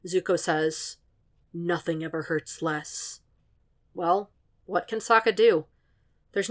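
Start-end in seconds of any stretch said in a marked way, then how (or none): 1.5-3.2 softer and slow, nothing ever hurts less; bleak quiet confession. A narrator's reading. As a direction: let it sink, almost no voice.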